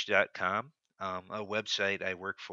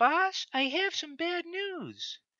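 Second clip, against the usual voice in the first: very high-pitched, put-on woman's voice; 4 dB louder than usual. A woman character addresses her boss in a very high-pitched voice. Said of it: "I just make a very high pitched voice".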